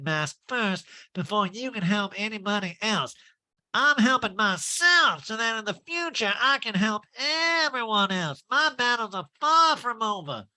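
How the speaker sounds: high, self-righteous nasal impression; mock-noble high voice; Erica Jane. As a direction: lecture in a pinched put-on voice. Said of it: "that Erica Jane imitation".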